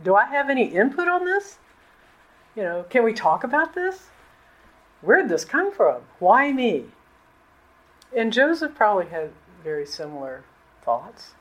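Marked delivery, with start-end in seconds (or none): 0.0-6.9 mildly bewildered questioning, pitched up; doubting protest. Acted. Preacher voicing Mary's doubts to the angel, mildly protesting. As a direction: voice a startled objection, lightly acted. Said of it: "It's okay to have doubt".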